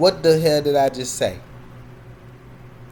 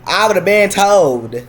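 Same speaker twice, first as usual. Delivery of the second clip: emphatic; 3 semitones higher, 6 dB louder, slower than usual. Real, not acted. Emphatic declaration.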